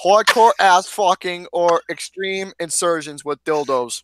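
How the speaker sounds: deadpan list of crude details; straight-faced reading. Real, not acted. Host rereading the bio while friends laugh, straight-faced. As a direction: keep a straight face through the bio. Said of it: "saying it with a straight face".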